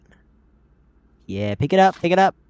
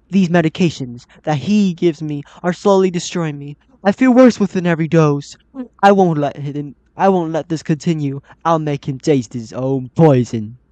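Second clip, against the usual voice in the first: loud, emphatic read of a grim letter; forceful, slowing on the last threat; dramatic note reading; 5 dB louder than usual. Acted. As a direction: read it out with indignant resolve. Reading a game note aloud.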